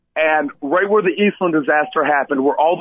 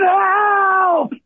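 retold scream; 14 semitones higher than usual.

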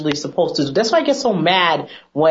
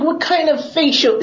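much higher mock-mom question; imitating mom; 9 semitones higher than usual. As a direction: squeak it out like her scornful mom. Mom voiced in retold story.

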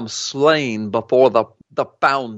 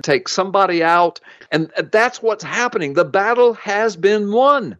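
impassioned sermon voice, pitched up; preaching; 2 semitones higher than usual. Acted. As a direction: preach it to the congregation. Preaches with a football analogy.

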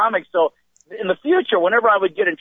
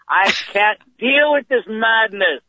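slow, higher mock despair; exasperated stepdad; 5 semitones higher, much slower than usual. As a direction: imitate a man at his wits' end. Stepdad threatens to flee family.

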